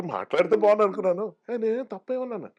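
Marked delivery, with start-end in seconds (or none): 1.5-2.5 high, protesting "what did I say wrong"; indignant protest. Retold or imitated. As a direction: push back in a pitched-up huff. Acted protest over lunch invite. (ఎక్కువ శృతిలో నిరసనగా)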